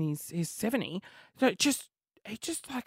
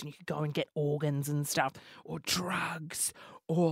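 whisper; 4 semitones lower, 8 dB quieter than usual. Retold or imitated. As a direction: hush it like a secret. Whispered illicit list.

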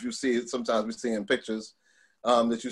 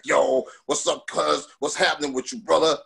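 Keith Shockley; 3 semitones higher than usual. Retold or imitated. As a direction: imitate a friend's way of talking, stretching the "Yo". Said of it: "he used to talk like this".

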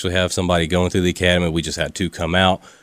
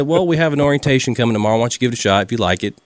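put-on quick, raised Southern accent; 5 semitones higher, faster than usual. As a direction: keep the Southern guy going, faster. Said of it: "he Southern voice, real Southern guy".

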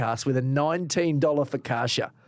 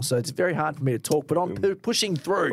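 talking with a numb face; numb mouth from dentist. Real, not acted. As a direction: speak as if half your face is numb. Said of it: "just been to the dentist, so I can't feel half my face".

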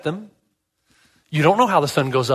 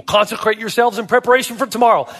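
raised, measured proclamation; higher-pitched stern announcement; stern, emphatic; 6 semitones higher than usual. Acted. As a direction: proclaim it firmly as God's command. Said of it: "it's stern, it's emphatic".

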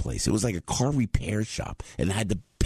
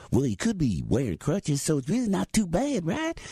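higher, kindly southern driver; the driver being reassuring, pitched way up; sweet driver voice; 10 semitones higher than usual. Retold or imitated. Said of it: "then the driver goes".

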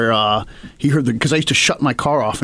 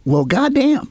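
grudging admiration; 11 semitones higher, slower than usual. Retold or imitated. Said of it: "I was sitting there going".

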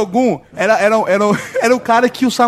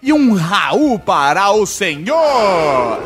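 ceremonial shout; much slower than usual. Acted.

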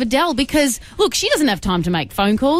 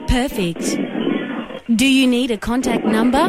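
automated operator voice; 3 semitones higher than usual. Pretend. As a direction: read it like a phone menu. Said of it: "automated operator voice".

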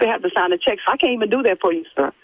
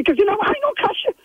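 rising, higher and sharper as she scolds; real scolding; 5 semitones higher than usual. Real, not acted. Church secretary scolding the rude caller, heated higher-pitched rebuke. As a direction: put him in his place, heated.

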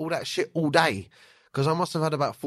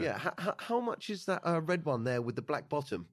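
awkward polite customer; 6 dB quieter than usual. Retold or imitated. Embarrassed customer asking the shop owner about the product, soft and hesitant. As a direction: ask sheepishly like an embarrassed buyer. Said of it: "so I go".

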